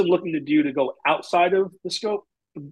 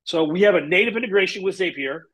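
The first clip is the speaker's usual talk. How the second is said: mock hesitant salesperson; evasive sales rep. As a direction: dodge the question, hemming and hawing. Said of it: "So usually reps go".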